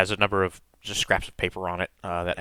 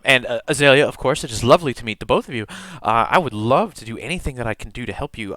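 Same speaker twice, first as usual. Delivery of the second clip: eager student clerk; 3 semitones higher than usual. Acted. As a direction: stammer politely, keen to help. Game master plays eager clerk.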